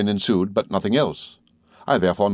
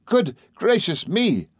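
high, slow, drawn-out amazement; stretched-out astonished exclamation; astonished cry; 10 semitones higher, slower than usual. A narrator's reading. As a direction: exclaim in wide-eyed surprise. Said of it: "cried Traddles, opening his eyes".

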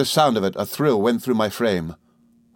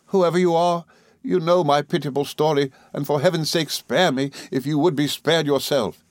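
high-pitched entreaty; Emily, pleading; 7 semitones higher than usual. A narrator's reading. Emily begging Rosa to spare her, pleading. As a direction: implore a hostile stranger. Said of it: "exclaimed Emily".

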